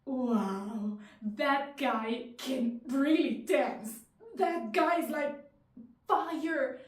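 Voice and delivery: wowed, leaning hard and loud on key words; awestruck. Acted. Woman thinking about the man dancing at the club, awestruck. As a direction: gush in admiration, punching the words.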